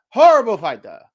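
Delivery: loud, put-on Mexican accent; Canelo's funny accent. Boxing commentator quoting Canelo for fun, in a mock accent. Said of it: "I just wanted to say a funny accent".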